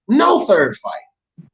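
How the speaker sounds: no third fight, each word dragged out slowly; a slow, stubborn no; slow firm refusal. Retold or imitated. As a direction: lay it down slow and final. Voicing Fury's refusal.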